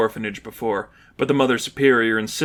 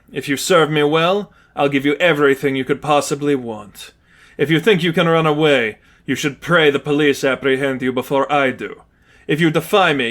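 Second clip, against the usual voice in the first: raised, threatening commanding voice; cold villain ultimatum. Acted. Lipov laying down his terms, menacing villain voice. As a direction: lay down the law.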